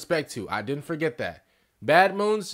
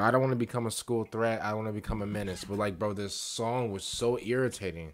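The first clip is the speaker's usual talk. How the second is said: low muttering; 7 semitones lower, 7 dB quieter, faster than usual. Real, not acted. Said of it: "Let me calm down".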